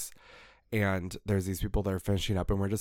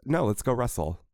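mock-heated challenge, higher pitch; turned all the way up; 3 semitones higher, 4 dB louder than usual. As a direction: issue an over-the-top challenge, playfully worked up. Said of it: "turned it up all the way".

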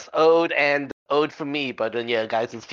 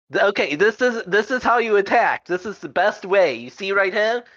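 lecturing instructor; 5 semitones higher than usual. Acted. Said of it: "I'm doing it educationally".

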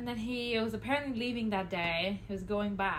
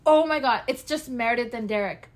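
mock rom-com gasp; 2 semitones higher, 10 dB louder than usual. Rom-com heroine imitated.

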